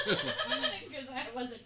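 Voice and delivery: slow words through laughter; laughing. Real, not acted. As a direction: talk while laughing. Laughs while explaining.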